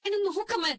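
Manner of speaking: daughter pleading with her mother; tearful. Acted. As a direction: beg her to look, on the edge of crying. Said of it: "ശ്രുതി, കരയാതെ മോളെ". (വിതുമ്പി അപേക്ഷിക്കുന്നു)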